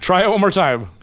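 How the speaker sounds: loud, high-pitched shouting. Prompting someone to try answering the question again, yelling. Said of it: "I know I'm yelling again".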